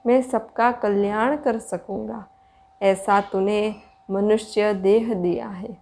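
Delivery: measured, even-toned meditation guidance with long pauses; spacious, steady meditation voice; guided meditation. Real, not acted. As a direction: guide listeners inward in unhurried phrases.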